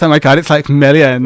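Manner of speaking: light mock Valley girl gush; a hint of a Valley girl, laughing it off. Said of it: "Why did you sound like a Valley girl?".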